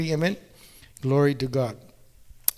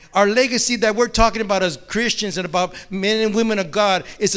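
louder, driving preacher's build; preaching at full force; 4 dB louder than usual. Acted. Preacher urging the congregation about their spiritual legacy, loud and driving. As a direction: lift the room, preach it hard.

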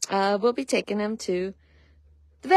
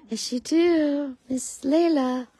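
high, slow sing-song to a mare; 5 semitones higher, slower than usual. Real, not acted. Owner cooing to her mare, high baby talk. Talking sweetly to the horse.

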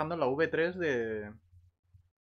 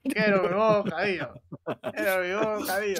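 whiny mock voice; 7 semitones higher, 4 dB louder than usual. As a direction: beg like a spoilt child. Repiten lloriqueo por bocadillo. (lloriqueo infantil más agudo)

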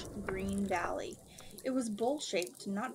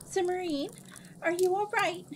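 higher, louder worried call; 10 semitones higher, 6 dB louder than usual. Acted. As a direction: shout down to a friend below. Calling down into dust cloud.

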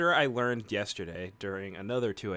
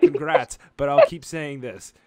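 shouted mock congratulations; loud sarcastic retort; 2 semitones higher, 12 dB louder than usual. Real, not acted. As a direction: yell it back sarcastically.

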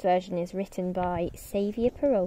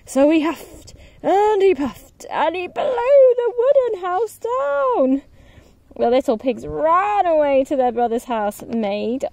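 higher, excited storytelling; dramatic narration; 7 semitones higher, 5 dB louder than usual. A narrator's reading. Narrator telling the wolf blowing houses down, excited and lively. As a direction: build the suspense for the kids.

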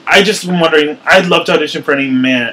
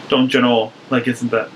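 Midwestern accent; 3 semitones lower, 4 dB quieter than usual. Shown as a demonstration. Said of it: "Midwestern-y".

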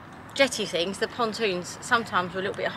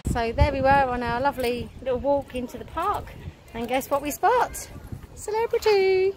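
wind on mic; 5 semitones higher than usual. Real, not acted. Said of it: "sorry for the wind noise".

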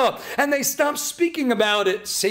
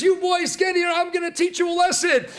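raised, higher mock scolding of the boys; mock angry yell; 4 semitones higher than usual. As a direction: yell at the kids, half acted. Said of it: "and he's screaming at them".

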